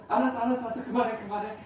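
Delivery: laughing mock-irritated brush-off; annoyed teenager. Grown child brushing off a parent's love, mock annoyed and laughing. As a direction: wave off the parent, half laughing. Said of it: "이렇게 반응하지 않습니까".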